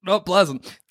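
gagging hiccups while talking. Real, not acted. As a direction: hiccups with little gags. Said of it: "How are those hiccups going".

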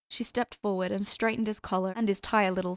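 usual speaking voice

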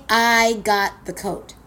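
I got the coat, slow, each word landed; slow savoring. Real, not acted. Comic repeating her win to the crowd, slow and savoring. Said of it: "You hear what I'm saying?".

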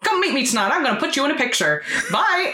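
high-pitched comic studio boss; hammed-up film mogul, rising to a high farewell; Mister Simpson. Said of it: "every time he speaks is so funny to me".

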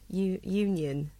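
"union" said slowly in a Welsh accent. Shown as a demonstration. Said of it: "That sounds quite Welsh".

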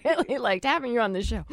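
put-on Southern drawl, lightly teasing; a playful touch of Southern lilt. Joking send-off to the co-host, Southern drawl. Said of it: "goes in her Southern drawl again".

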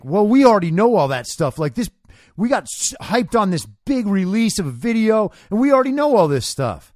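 mock reaction. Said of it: "some of the reaction is like".

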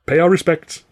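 high, loud henchman; second thug. A narrator's reading. Other thug adds, loudly and high.

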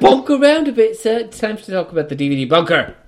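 loud, high mock British accent. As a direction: belt out a hammed-up British voice. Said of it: "we do British better than you".

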